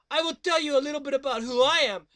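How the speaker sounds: fast surfer dude intro. Acted. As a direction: rattle it off like a beach bum.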